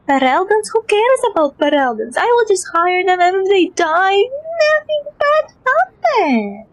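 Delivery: snooty merchant voice, squeaky finish; lightly voiced arrogant employer; Hubert impression. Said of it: "This is Hubert's impression".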